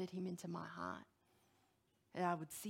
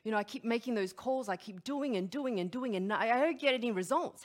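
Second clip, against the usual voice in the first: frustrated quote; 2 semitones higher, 6 dB louder than usual. Retold or imitated. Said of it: "someone had shared the frustration".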